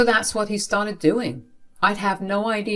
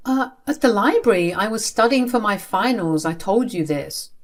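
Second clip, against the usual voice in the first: higher-pitched, hesitant explaining; defensive answer; 3 semitones higher than usual. Acted. Child to angry father about the library, defensive. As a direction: explain yourself to an angry parent.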